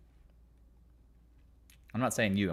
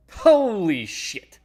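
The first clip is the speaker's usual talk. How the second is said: slow, loud, higher drawn-out exclaim; copied voice; 8 semitones higher, 7 dB louder, much slower than usual. Retold or imitated. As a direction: try the borrowed voice again, slow and loud. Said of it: "trying to mimic some voice".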